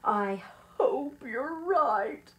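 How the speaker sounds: slow, heavy sigh of a reply; mild, drawn-out worried sigh; sighed doubt. Acted. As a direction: sigh it out, unconvinced. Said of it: "sighed Mister Lowe".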